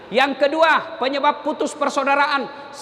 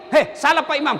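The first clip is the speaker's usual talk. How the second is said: mock wrong rebuke. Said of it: "Tegurnya begini".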